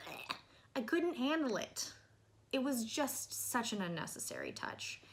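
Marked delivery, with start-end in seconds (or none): 0.1-0.4 disgusted noise. Retold or imitated. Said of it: "the dialect was just".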